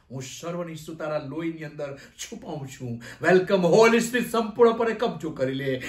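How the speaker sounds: earnest prayer with a long final amen; closing prayer. Real, not acted. Pastor thanking the Lord for hearing and answering, earnest closing prayer. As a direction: settle from pleading into thankful closing.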